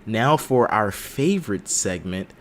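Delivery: slow, stretched-out segment title; hammy host introducing a segment; game-show announcer. Pretend. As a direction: announce it grandly, drawing out the title.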